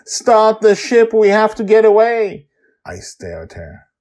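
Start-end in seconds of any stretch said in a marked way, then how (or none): 0.1-2.5 urgent begging. A narrator's reading. Fleeing mother pleads with Grandpa Walt to flee, begging. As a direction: beg desperately to escape. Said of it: "she begs me".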